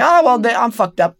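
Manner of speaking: high-pitched inner panic, played back; retold sinking-in alarm; mock dismay. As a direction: realize you have blown the audition. Acts out realizing the audition is ruined.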